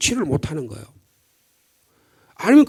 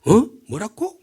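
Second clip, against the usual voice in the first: blunt dialect retort; 5 semitones higher, slower than usual. Retold or imitated. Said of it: "좀 직선적이고".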